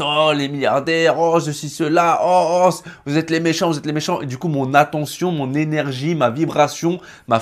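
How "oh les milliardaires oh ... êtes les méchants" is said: higher, ranting parody of a conspiracist; hammed-up outraged ranting; mock conspiracy theorist. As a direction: rattle off accusations like a worked-up complotiste. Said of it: "en mode, euh, complotiste".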